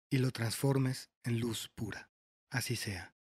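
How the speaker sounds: measured prayer reading with pauses between phrases; recited prayer. Acted. Guide praying to the Divine Creator for forgiveness, measured prayer voice.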